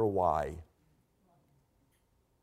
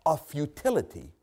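weary Solomon; 4 semitones higher than usual. Retold or imitated. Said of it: "he's saying".

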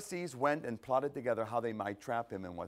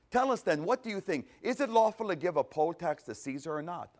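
mock sly question; 5 semitones higher, 5 dB louder than usual. Pharisees spring their trap question.

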